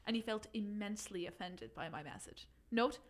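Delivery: put-on reading in a light Irish accent; a gentle Irish lilt throughout. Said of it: "do you think I could do it in Irish?".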